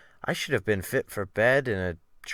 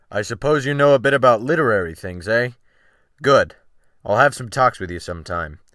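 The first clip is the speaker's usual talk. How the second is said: a lightly voiced gruff captain, quicker and louder; Wolf Larsen, brisk; 5 dB louder than usual. Captain quizzing the cabin boy about books, brisk and loud. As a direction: sea captain sizing up the new hand, brisk and loud.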